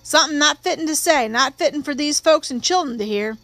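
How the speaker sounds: lightly voiced, uneasy witness; a touch of pleading reluctance; reluctant witness. Witness unwilling to repeat words before children, mildly uneasy.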